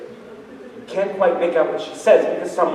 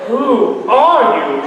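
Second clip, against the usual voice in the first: laughing; 5 semitones higher, 5 dB louder, much slower than usual. Retold or imitated. Repeats question, laughing.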